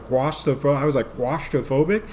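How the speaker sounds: claustrophobic stumbled as quastopho then wastophobic; tried claustrophobic. Shown as a demonstration. Comic tripping over claustrophobic. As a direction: fumble the word claustrophobic. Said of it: "See, I even tried".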